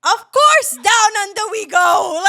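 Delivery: high, loud, gleeful shout; excited outburst. Real, not acted. Friend jokes she'd fly to Australia, excited shout. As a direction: belt it out high, drawing out the words. Joking eager answer about flying to Australia.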